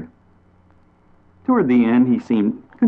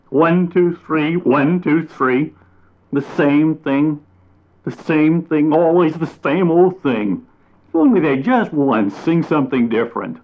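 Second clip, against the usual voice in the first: mock their boring song; exasperated mockery; 7 semitones higher than usual. A narrator's reading. Mockingbird mocking the birds' song to bat and chipmunk, exasperated. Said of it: "cried the mockingbird".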